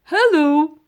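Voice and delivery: a dog's cheerful hello to a burglar; friendliest voice. A narrator's reading. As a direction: greet him like a new best friend. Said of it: "Phyllis said in his friendliest voice".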